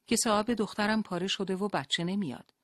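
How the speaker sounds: shouting. Acted. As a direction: yell to the nurse through the crowd. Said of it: "داد زد".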